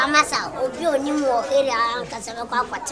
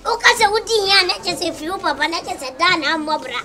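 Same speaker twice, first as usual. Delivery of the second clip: heated accusation; 4 semitones higher than usual. Acted. Heated argument over the father.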